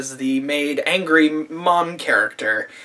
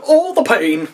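mock agony; 8 semitones higher, 3 dB louder than usual. Imitates stabbed man in agony.

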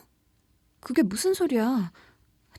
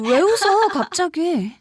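higher and louder, startled; startled alarm; 6 semitones higher, 7 dB louder, slower than usual. Acted. Narrator alarmed as the friend suddenly laughs, startled.

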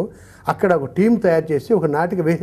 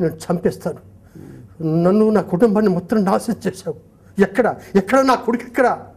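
higher, louder furious demand for his son; the ex-convict roaring for his son; raging father shouting where is my son; angry convict; 5 semitones higher, 4 dB louder than usual. Acted. Freed convict confronts commissioner.

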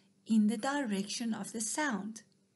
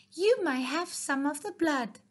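higher, louder mocking offer; sneering; 5 semitones higher, 4 dB louder than usual. Mouse mocking the starving fox, higher and louder. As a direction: toss him the scraps with scorn. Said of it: "he sneered".

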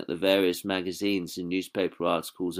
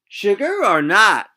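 high, slow, put-on hostess voice; a sweet lady offering tea; Sally's voice; 11 semitones higher, 8 dB louder, slower than usual.

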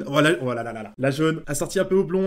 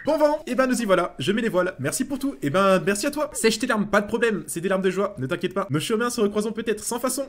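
lightly acted higher reading voice; game character's farewell; 4 semitones higher than usual. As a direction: read the goodbye in a lifted voice. (adieux lus d'une voix plus aiguë)

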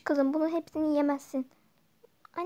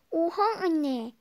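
laughing; 4 dB louder, much slower than usual. Acted. Daughter reacts to school news.

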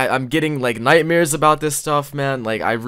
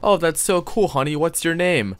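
mom voice; 6 semitones higher than usual. Pretend. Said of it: "Yo, Mom".

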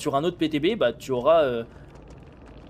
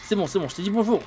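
usual speaking voice

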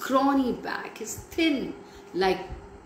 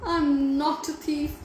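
whispered plea; 7 semitones higher than usual. A narrator's reading. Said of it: "he whispered as the gentleman".

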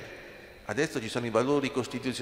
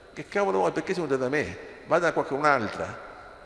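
mock defiant brush-off, pitched up; finto menefreghismo; 3 semitones higher than usual. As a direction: act out someone sending a messenger away. Imagined Madonna brushing off the angel. (rifiuto sprezzante recitato)

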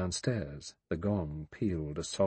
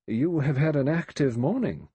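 faint malicious pleasure; 6 semitones higher, 6 dB louder than usual. A narrator's reading. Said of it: "a faint malicious pleasure in his voice".

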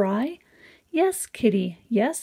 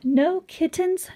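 excited exclamation; 9 semitones higher than usual. Pretend. Reading the surprise ending.

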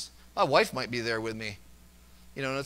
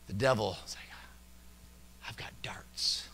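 unvoiced whispered menace; whispered devil; 6 semitones lower, 8 dB quieter than usual. Preacher voicing the devil to congregation, whispered.

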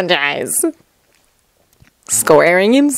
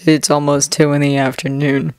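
flat; 4 semitones lower, 3 dB quieter than usual. Acted. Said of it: "replies flat".

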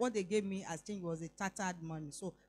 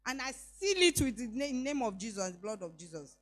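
with authority. Retold or imitated. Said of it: "I'm saying with authority".

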